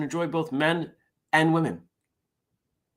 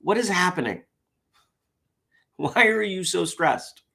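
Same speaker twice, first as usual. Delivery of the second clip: higher, lightly fussing gadget voice; voicing the smart ring; 8 semitones higher than usual. Vlogger voicing his smart ring, lightly fussing. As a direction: play the ring as a worried nag. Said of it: "it basically said to me".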